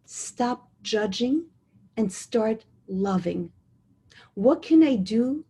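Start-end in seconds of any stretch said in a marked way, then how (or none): 0.1-3.5 slow repeat. Shown as a demonstration. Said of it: "I'll say that again".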